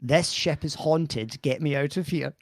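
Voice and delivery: slowly modelled put-on American accent; feed the line in slow, lightly American tones. Shown as a demonstration. Husband giving his wife her film line, slow American accent. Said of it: "your line is".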